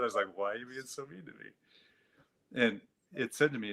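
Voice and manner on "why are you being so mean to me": slow, hushed, much softer and wounded; small hurt plea. Shown as a demonstration. Man reenacting how he pleaded with his inner voice, hushed and hurt. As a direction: plead softly and slowly like a hurt child. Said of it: "That's exactly how I said it".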